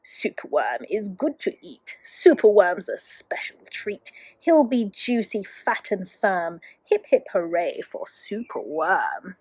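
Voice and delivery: low croaking crow, partly whispered; a menacing crow's croak, low and hushed; dreadful croak. Acted. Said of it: "listen to his dreadful croak".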